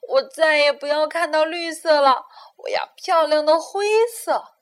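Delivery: insistent demand. Acted. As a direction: demand the gray outfit. Havar insisting on gray.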